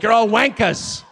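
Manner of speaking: slow, laughing taunt; laughing mock insult. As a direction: sound out wankas slowly through a laugh. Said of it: "Be like".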